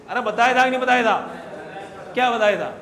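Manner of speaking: real teacherly exasperation; exasperated demand. Real, not acted. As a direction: press the class impatiently for an answer. Teacher scolds silent class.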